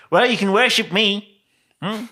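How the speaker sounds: high, loud, tempting demon. Acted. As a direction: offer worship like a smug little demon. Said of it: "the demon's like".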